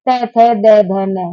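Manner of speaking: तै, थे, दे, धे, नै said one at a time for the class; sounding out letters. Shown as a demonstration. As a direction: spell out तै थे दे धे नै, each on its own. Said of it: "अब बोल के देख लीजिए बेटा".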